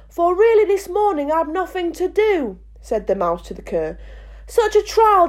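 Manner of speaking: high storytelling mouse voice. Acted. Reads the mouse's tale verse.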